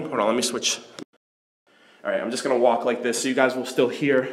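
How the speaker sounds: hallway echo, talking while walking; echoey voice. Real, not acted. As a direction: speak into a bare echoing corridor. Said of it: "my echoey voice".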